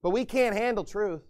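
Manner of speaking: loud, hammed-up militia bravado; mock tough talk. Pastor mocking gun-proud churchgoers with loud bravado. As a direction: puff up and boast like a swaggering gunman. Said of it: "You say".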